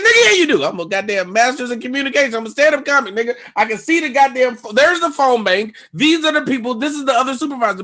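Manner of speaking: high and loud berating; ranting. Retold or imitated. Comic berating the supervisor in front of others, high loud rant. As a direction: lay into him hard.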